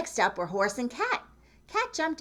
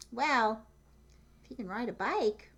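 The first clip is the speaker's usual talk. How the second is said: animals musing; 4 semitones higher than usual. Acted. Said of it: "they all said".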